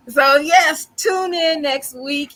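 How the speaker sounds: high, slow sobbing sign-off; mock crying outro. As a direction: keep the hammed-up sob. Outro still in mock cry.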